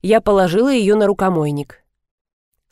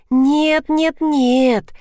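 muttered; 7 semitones higher, much slower than usual. A narrator's reading. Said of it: "забормотала Майя".

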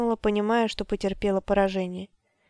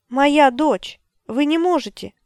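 desperate plea; 5 semitones higher, 5 dB louder, slower than usual. A narrator's reading. Mother pleading for her child.

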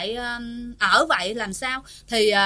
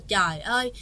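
angry mother-in-law. Retold or imitated. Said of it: "có tức giận nói rằng á".

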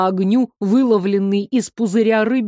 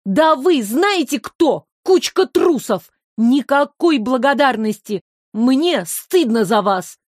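scolding; 3 semitones higher than usual. Acted. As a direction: shame them for their cowardice. Olya scolds the elements.

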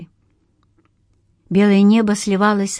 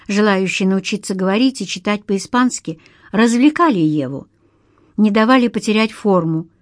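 plain reading voice

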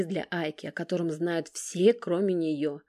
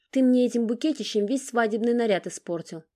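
high, louder, sulky squeal; capricious squeak; 6 semitones higher, 5 dB louder than usual. A narrator's reading. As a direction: pout and squeak it like a spoiled girl. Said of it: "капризно пропищала".

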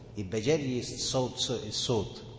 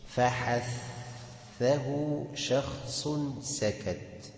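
drawn-out Quran recitation of the phrase; slow recitation; much slower than usual. Shown as a demonstration. Teacher reciting the letter mnemonic slowly to students. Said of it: "tajweed teacher demonstrates recitation".

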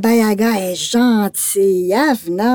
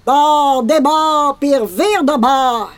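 witch incantation; 5 semitones higher, slower than usual. Acted. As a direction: chant the magic words like a witch. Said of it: "récite une formule magique".

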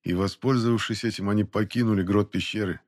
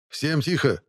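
strained hush order; 7 semitones higher, slower than usual. Acted. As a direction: squeeze it out with effort. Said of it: "с трудом перевёл Архипов".

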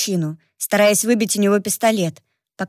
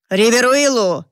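louder barked demand; barked name; 2 semitones higher, 3 dB louder than usual. Acted. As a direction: bark the name out. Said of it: "рявкнул незнакомец".

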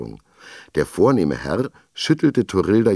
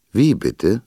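put-on grumbling old teacher; 6 semitones higher, 6 dB louder than usual. A narrator's reading. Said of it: "brummte der Schullehrer".

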